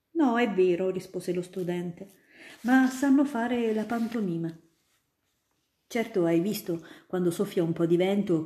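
put-on a grown-up spinning tales for a child; student eagerly convincing little Ida; storytelling student. Student explains pantomime.

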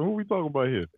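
a breathy, conspiratorial whispered question. Real, not acted. Host asking the co-host about D, in a whisper. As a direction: lean in and whisper it.

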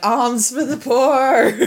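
slow, laughing beggar plea; mock beggar. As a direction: beg for alms, hammed-up. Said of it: "a little bucket that's like".

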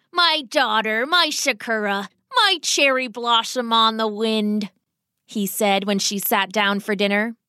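put-on old rat father addressing his beloved daughter; lightly voiced fond rat papa, insistent; doting old rat father.

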